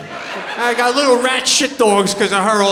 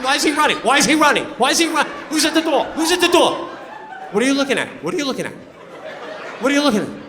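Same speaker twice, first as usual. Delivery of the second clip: nervous panic; 4 semitones higher, much faster than usual. Retold or imitated. Panicked owner of pit bull.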